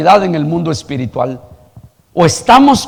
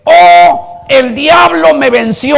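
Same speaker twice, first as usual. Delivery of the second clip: higher, drawn-out mock wail; loud "Oh" opening a hammed-up complaint; mock lament; 7 semitones higher, 4 dB louder, slower than usual. Preacher imitating people who blame the devil, mock lament.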